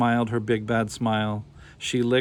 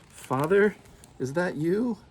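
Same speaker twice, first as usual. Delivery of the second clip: scared call; 8 semitones higher, slower than usual. A narrator's reading. Scared child calling in dark.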